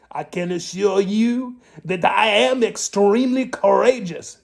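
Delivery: a rascal assures the captain of his courage, primly. Acted. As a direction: answer as a polite, proper rascal. Rascal answers Pete.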